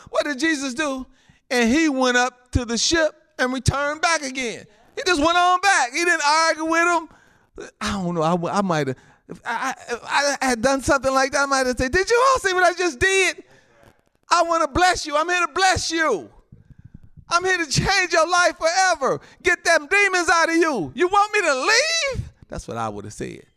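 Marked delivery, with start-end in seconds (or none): 1.5-7.1 high, insistent pulpit delivery; emphatic preaching. Real, not acted. Preacher tells how Jesus went back, emphatic preaching. 11.9-22.3 high, impassioned mock pleading; indignant protest. Preacher acts what he would have said, indignant protest.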